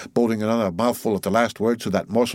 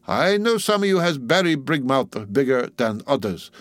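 put-on higher-pitched dialect sermon from an old ship's cook; old cook preaching; 5 semitones higher than usual. Old cook preaching to greedy sharks, dialect sermon voice. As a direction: exhort an unruly flock in dialect.

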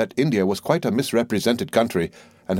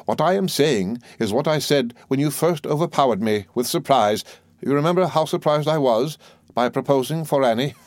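lightly voiced old mother-in-law; 3 semitones higher than usual. The old soldier pressing her point on the doctor, lightly voiced. Mother's long speech, raised pitch.

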